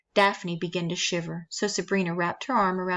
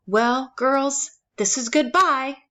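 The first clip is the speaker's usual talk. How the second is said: brisk farewell; 6 semitones higher, 5 dB louder, slower than usual. A narrator's reading. Caseworker eager to leave.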